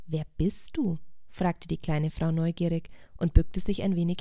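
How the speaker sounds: gentle, expressive storybook reading; measured storyteller with deliberate pauses; story narration. A narrator's reading. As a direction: read a fable aloud, giving each character feeling. Reads a story aloud.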